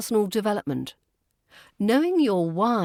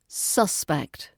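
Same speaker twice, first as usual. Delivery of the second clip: SUSpect, first syllable stressed; 2 semitones lower than usual. Shown as a demonstration. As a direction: hit SUS in "suspect". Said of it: "As a noun".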